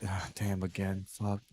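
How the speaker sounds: softly muttered, mildly exasperated aside; weary resignation. Retold or imitated. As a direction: retell it as a quiet, fed-up sigh. Weary reaction to repeated question.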